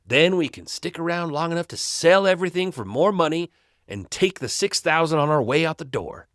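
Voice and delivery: lightly voiced sly swindler, eager and quick; a hint of a grinning crook hatching a plan; understated conspiratorial old rogue; scheming con man. Con man plotting aloud.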